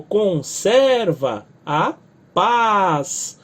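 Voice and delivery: "conserva a paz" slow, stressing ser and paz; stressed demo phrase. Shown as a demonstration. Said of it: "Aí a paz, que é uma monossílaba forte". (conserva a paz, lento, acentuando ser e paz)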